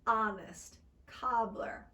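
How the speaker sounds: "honest", "cobbler" with an open American ah. Shown as a demonstration. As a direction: open the jaw wide on "honest". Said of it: "standard Americans use it".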